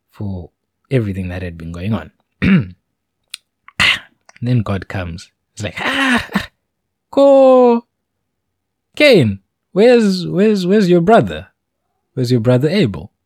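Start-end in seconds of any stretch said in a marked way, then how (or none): 5.8-13.1 a booming God who wants an answer now; demanding God. Retold or imitated. God confronts Cain about Abel.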